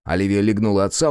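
ordinary delivery

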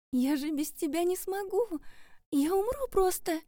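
very high despairing cry. Acted. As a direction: plead in despair. Героиня в отчаянии. (очень высоко, в отчаянии)

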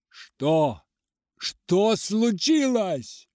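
loud, high and slowed alarmed shout; alarmed outcry. A narrator's reading. Doctor cries out to the peasant in alarm. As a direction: cry out in sudden alarm. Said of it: "выкрикнул я".

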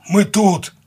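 very high, loud holler; distant shout. A narrator's reading. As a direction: holler so they find you. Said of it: "донеслось с берега". (высокий зов с берега)

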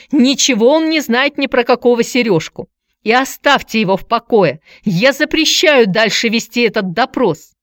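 high, loud forbidding voice; decisive. A narrator's reading. Aunt forbids visitor to question nephew further, decisive. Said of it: "решительно заявила она".

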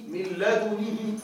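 "من لدنه" with damma on the dal and kasra on the nun, slowly; pronunciation demo. Shown as a demonstration. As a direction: say "لدنه" with full vowels. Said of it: "لا مشكلة". ("من لدنه" بضم الدال)

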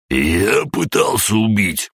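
high, slow, venomous hiss; hissing old man. A narrator's reading. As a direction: hiss it back in disbelief. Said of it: "прошипел Гаврош". (злобное шипение)

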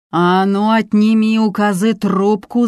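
high, slow, restrained roar; roaring order. A narrator's reading. Duty officer orders her phone taken, mild roar. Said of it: "заревел дежурный".

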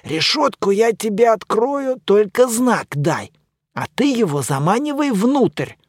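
mummy's voice. Acted.

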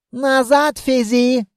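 high, slow, stretched command; indignant officer. A narrator's reading. Officer orders the carter back, indignant. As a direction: send him back with official outrage.

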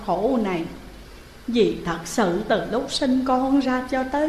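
a touch of choked, tearful mother. Acted. Grieving mother begging her dead daughter to release the boy, mildly choked. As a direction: plead through held-back tears. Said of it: "Bà Tư nghẹn ngào".

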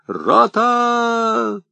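a sharp high military command; commanding shout. Acted. Officer calls the company again. (громкая команда)

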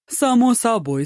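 light breezy "Само собой" pitched high. A narrator's reading. Po Kai brushing off Ma Joong, high carefree reply. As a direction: toss it off high and easy. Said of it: "беззаботно отозвался".

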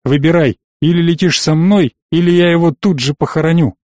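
a cold hint of menace; menacing. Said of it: "недобро прищурился Виктор". (слегка угрожающе, громче)

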